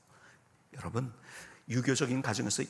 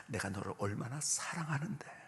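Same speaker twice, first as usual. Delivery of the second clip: soft, understated retold tearful affection; tearful mother; 3 semitones lower, 5 dB quieter than usual. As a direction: imitate a crying mother's tender assurance, lightly. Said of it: "우시면서".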